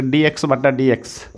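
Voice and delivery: very slow, word by word, like dictating a formula; slow dictation. Shown as a demonstration. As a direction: spell the formula out slowly for students to copy. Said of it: "तो आप ऐसे इसका फॉर्मूला याद रखोगे". (फ़ॉर्मूला याद कराते हुए बहुत धीरे, एक-एक शब्द बोलकर)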